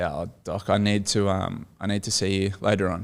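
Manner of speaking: low, soft, discreet request; quiet approach. Retold or imitated. Player asking team doctor for a private word, quietly. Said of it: "I walk over quietly to the doctor".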